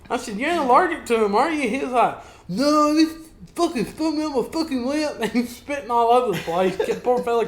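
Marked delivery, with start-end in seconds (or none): 0.4-5.2 high and loud, half laughing; laughing retelling. Retold or imitated. Retelling the wasp story to a friend, laughing. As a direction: keep the giggle in the voices. Retold exchange with coworker.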